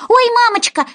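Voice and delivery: high, loud dismayed cry; Alice crying out in dismay; apologetic cry. Acted. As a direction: gasp out an apology. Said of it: "закричала она извиняющимся тоном".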